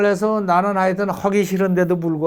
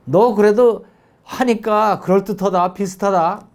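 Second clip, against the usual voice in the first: encouraging praise; 4 semitones higher than usual. Shown as a demonstration. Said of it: "이 정도는 칭찬이 나가야지".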